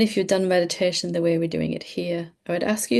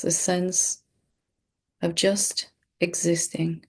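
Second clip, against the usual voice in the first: calm, unhurried meditation guide with long pauses; measured meditation delivery, pausing often; guided meditation. Real, not acted. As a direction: lead them gently through breathing, leaving space between phrases. Leads a breathing meditation.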